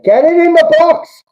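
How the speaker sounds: high, loud demand for the cross; urgent yell. Real, not acted. Fan yelling at the screen for a cross, loud and high. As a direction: scream for the ball into the box.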